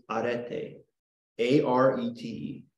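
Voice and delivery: slightly Spanish-accented "arete", drawn out; Castilian Spanish accent. Shown as a demonstration. Teacher naming a Greek term for class, Castilian Spanish accent. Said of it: "absolutely conquistador level Castilian Spanish".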